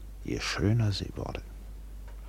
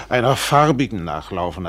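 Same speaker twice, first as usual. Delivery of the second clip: mock yell; 7 dB louder than usual. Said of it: "hat die alte Bestie geschrien".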